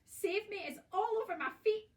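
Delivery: high, loud panicked pleading; terrified scream. A narrator's reading. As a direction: beg for rescue in a shriek. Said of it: "screamed Missus Twit".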